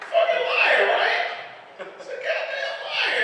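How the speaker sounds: high, loud laughing disbelief; laughing at being fooled; laughing outrage. Real, not acted. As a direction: cackle the accusation. Laughing at the liar.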